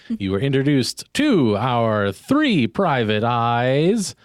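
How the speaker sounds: slow dramatic introduction with swooping pitch; serial announcer. Acted. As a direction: draw out each name theatrically.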